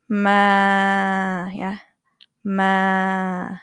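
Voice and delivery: "Ma" flat and level; even mid tone "Ma"; Thai mid tone. Shown as a demonstration. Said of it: "Mid tone".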